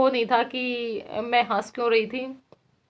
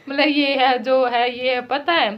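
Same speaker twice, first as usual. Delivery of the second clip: mock echo; 4 dB louder than usual. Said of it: "मैंने सोचा आप कुछ बात".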